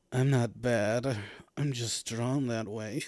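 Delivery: slow, low sultry-ish quote; Jessica Rabbit. Retold or imitated. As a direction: purr it out slowly like a cartoon siren. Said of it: "Jessica Rabbit".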